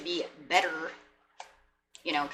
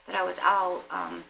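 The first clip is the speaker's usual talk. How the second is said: a touch higher, fond and sorry; mock loving partner; 4 semitones higher than usual. Wished-for partner apologizing warmly to you. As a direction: play the partner who missed you. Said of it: "I wanted to hear".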